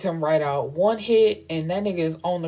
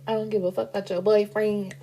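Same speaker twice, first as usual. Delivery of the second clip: put-on character voice; 3 semitones higher, faster than usual. Same line redone in a put-on voice.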